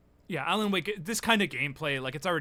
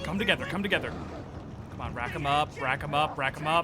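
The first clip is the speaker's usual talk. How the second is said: excited; 4 dB louder than usual. Real, not acted. Rallying enemies to shoot.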